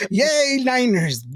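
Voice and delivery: playful half-hearted cheer; mock cheer. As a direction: draw out a teasing yay.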